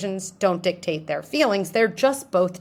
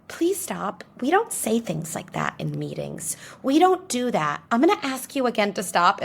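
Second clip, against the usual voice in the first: pleading weak manager; 3 semitones higher than usual. Retold or imitated. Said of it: "the second option would be saying".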